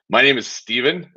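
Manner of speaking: bold, commanding name drop; powerful. Shown as a demonstration. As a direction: say it with gusto and weight. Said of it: "you have to be powerful".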